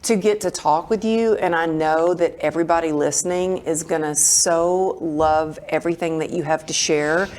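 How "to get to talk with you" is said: higher, thrilled host voice; eager, lifted welcome to a guest; so excited. Real, not acted. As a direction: bubble over with excitement for the guest. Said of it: "I'm so excited".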